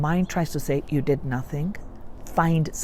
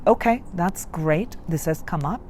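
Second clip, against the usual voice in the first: calm self-talk; 2 semitones lower, 5 dB quieter than usual. Retold or imitated. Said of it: "and now I just say".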